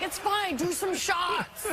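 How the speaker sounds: high, drawn-out mock cheer; retold egging-on. Brothers urging nervous sister to drink, high egging-on. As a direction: stretch the last words into a high rallying cry.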